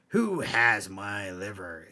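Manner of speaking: slow, drawn-out ghostly moan; the voice creeps nearer, slow and eerie; ghostly voice closer. Acted. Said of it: "Now the voice was closer".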